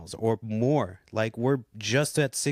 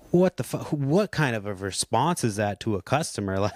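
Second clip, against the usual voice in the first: retold outburst.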